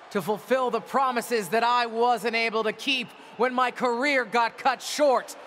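heated in-ring speech to crowd; wrestling promo. Acted.

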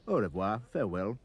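usual speaking voice

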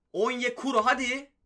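cheering his striker forward; excited urging. Real, not acted. Gamer urging Onyekuru toward goal, excited.

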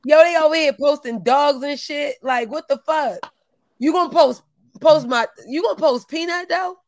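heated, incredulous complaint; riled-up outrage; worked-up mad. Real, not acted. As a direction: protest it like you can't believe they did it. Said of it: "Yo, I'm mad".

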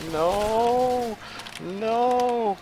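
high, soft drawn-out no; dismayed wail. Real, not acted. Gamer watching the play go wrong, dismayed. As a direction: wail it softly, high and long.

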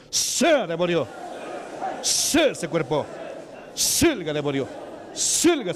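rising, forceful commands to the demon; commanding exorcism. Real, not acted. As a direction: cast the demon out with authority. Exorcism, casting out the devil. (exorcismo enérgico, ordenando al demonio)

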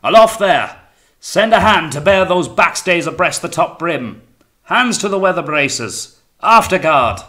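high, loud deck orders; shouted commands. A narrator's reading. Captain directing the hands at the braces, shouting. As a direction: call each order across a windy ship.

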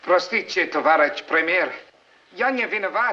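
put-on halting Russian with a clumsy foreign accent; atrocious Russian accent. Aide apologizing to the Premier, in a clumsy Russian accent. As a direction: stumble through the Russian in a bad accent. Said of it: "that atrocious accent".

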